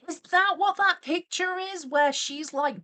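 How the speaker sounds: high, loud incredulous question; loud, high-pitched alarm; shocked realization. Real, not acted. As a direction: burst out as it dawns on you. Sudden shocked realization about picture.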